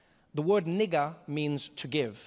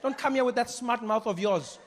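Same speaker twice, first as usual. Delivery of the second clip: higher, stern mom telling off; a mother cutting off a cheeky kid; scolding mother; 5 semitones higher, slower than usual. Retold or imitated. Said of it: "be like".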